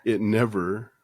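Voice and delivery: real emotion, halting between words; choked up, breaking off to apologise; getting emotional. Real, not acted. Guest moved while recalling his sacred home, getting emotional. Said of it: "I'm getting emotional".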